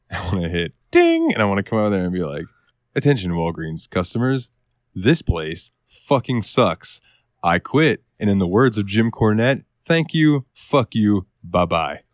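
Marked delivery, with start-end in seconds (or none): 0.9-1.3 intercom chime. Acted. Imitates store intercom chime. 3.0-12.0 mock store announcement, measured delivery; intercom announcement. Quitting over the store intercom to customers, mock announcer delivery. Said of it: "I wanna pick up the intercom".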